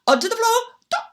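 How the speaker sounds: high loud whooping; gleeful shout. Acted. Elves whooping down the chimney into the fire. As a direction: swoop down with glee.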